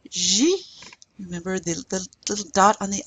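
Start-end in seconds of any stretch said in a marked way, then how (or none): 0.1-0.6 French J, ending in "ee"; French letter J. Shown as a demonstration. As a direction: say J like "zhee". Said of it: "the J is pronounced".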